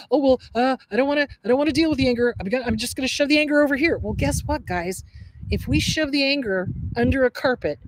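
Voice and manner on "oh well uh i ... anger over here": mock avoidance. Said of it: "is that people go".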